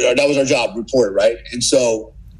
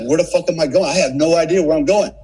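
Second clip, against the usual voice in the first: rising from worried to higher panicky voice; worried to panicked; 6 semitones higher than usual. Retold or imitated. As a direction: spiral into panic, pitch climbing. Lost alone in the dark.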